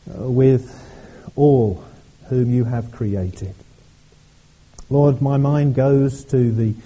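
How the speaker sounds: earnest congregational prayer. Acted. Pastor leading the congregation in prayer, earnest. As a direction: pray aloud for the whole church.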